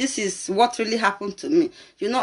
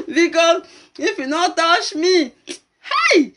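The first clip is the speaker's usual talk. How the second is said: high-pitched, laughing words; laughing confession; 8 semitones higher, slower than usual. Real, not acted. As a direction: talk through rising laughter. Laughing through her own confession.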